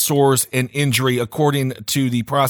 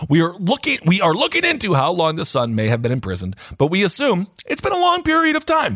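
put-on Swedish accent; 4 semitones higher than usual. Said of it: "that's my Swedish accent".

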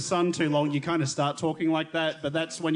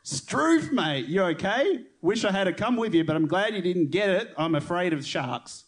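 put-on light Australian accent. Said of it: "you be Adam".

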